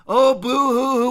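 mock boo-hoo sobbing; sarcastic fake weeping; fake crying. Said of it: "and she's crying".

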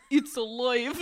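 put-on Russian accent. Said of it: "In Russian?".

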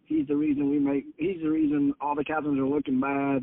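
mildly mocking retelling, starting high; retold smart-ass jibe. Fisherman griping about a captain within earshot, smart-ass. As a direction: imitate a smart-ass taking a dig. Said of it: "smart-ass stuff".

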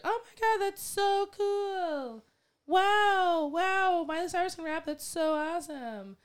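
high, loud mock-gushing valley-girl squeal; mock the starstruck fans, squealing high. Mocking fans gushing over a pop singer's rap, high squealing voice. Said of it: "and everyone's like".

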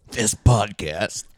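smoker's rasp. Shown as a demonstration. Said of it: "pretend you have, like, a smoker's voice".

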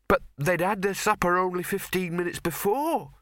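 high, hurried servant blurting; blurted out. Acted. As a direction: blurt it out, eager. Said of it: "the servant blurted out".

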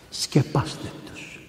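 slow, whispered repeat; slow whispered plea. Real, not acted. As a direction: breathe it as a whisper. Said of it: "Σκεπάστε τους ανθρώπους".

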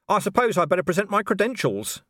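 a dry, understated copper's retort; dry Vimes. A narrator's reading. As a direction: answer flatly, making a point. Vimes voiced in dialogue.

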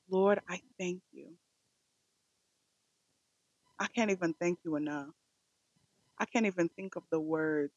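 earnest prayer, often hushed at phrase ends; sincere, reverent praying voice; heartfelt closing prayer. Real, not acted. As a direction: pray aloud in measured, pausing phrases.

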